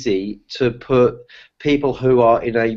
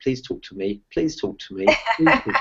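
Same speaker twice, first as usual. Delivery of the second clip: hushed, hopeful, higher pleading mutter under the breath; 5 semitones higher, 4 dB quieter than usual. Retelling what a nervous woman at the table muttered: imitating muttering under her breath. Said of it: "under her breath, she went".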